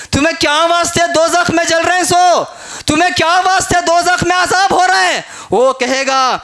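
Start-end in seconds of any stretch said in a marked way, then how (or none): 0.1-5.2 preacher's demanding question. Acted. Acts question to the damned.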